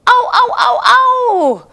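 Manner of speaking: high, loud howling yips; ow ow like a coyote, laughing. Shown as a demonstration. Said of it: "do you know how to howl like a coyote?".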